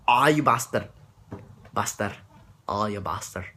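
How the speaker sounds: Scottish accent. Shown as a demonstration. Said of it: "Or the way they talk, just a lot faster".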